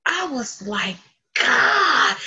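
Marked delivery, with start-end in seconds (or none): 1.4-2.2 loud, high cry of "God"; retold scream. Woman retells being struck by the teaching, crying out loudly. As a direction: re-enact crying out, higher and louder. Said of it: "and I screamed".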